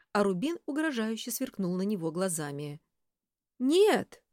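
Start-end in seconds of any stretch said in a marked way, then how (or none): 3.6-4.2 loud, high panicked cry. A narrator's reading. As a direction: blurt it out in panic. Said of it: "Я запаниковала".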